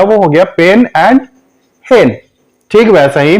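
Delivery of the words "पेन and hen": पेन, hen with a short "eh". Shown as a demonstration. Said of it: "short sound में". (छोटा ए)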